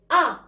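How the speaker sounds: أ with the mouth opened upward into "a"; teacher modelling أ as a lone "a" vowel; fatha sound. Shown as a demonstration. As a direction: say أ as an open "a". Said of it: "يلا كرروا معايا".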